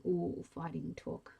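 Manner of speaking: slow, sneering mock surprise; mock her bravado, drawn out.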